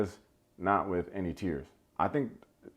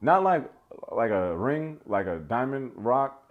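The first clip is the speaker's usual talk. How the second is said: emphatic correction; slower than usual. Real, not acted. Correcting, it's a real rock.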